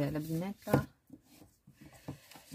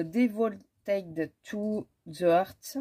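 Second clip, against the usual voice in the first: English words in a slow French accent; 4 dB louder, much slower than usual. Real, not acted. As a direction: sound it out slowly and loudly, French-accented. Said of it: "Excusez mon accent". (accent français)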